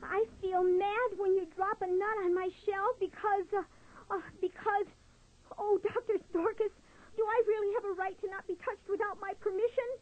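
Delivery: put-on high, anxious child-like voice; a nervous little turtle forcing the words out; shy young turtle, voice high and trembling; timid little turtle.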